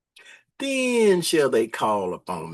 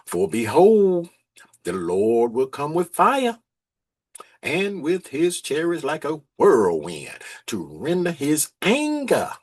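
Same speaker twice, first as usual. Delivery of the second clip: slow, emphatic scripture reading, louder on behold; preaching scripture; 4 dB louder, slower than usual. Acted. Preacher reading Isaiah to the congregation, slow and emphatic. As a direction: read the prophecy slowly, with weight.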